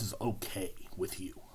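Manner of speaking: hushed whisper. Retold or imitated. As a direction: whisper it sheepishly. Whispered quote.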